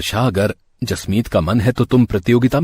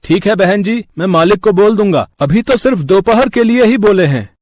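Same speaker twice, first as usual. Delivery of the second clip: hotel delivery man; 7 semitones higher than usual. Acted. Delivery man politely answering the mother at the door. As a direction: play a polite young hotel errand boy.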